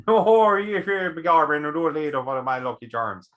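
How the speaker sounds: a loud mock Irish leprechaun. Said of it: "The leprechaun from The Simpsons".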